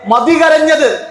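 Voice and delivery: high, pleading call to stop crying; pleading friend. Retold or imitated. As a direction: beg him to stop weeping. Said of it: "Abubakar Siddique പറയാ".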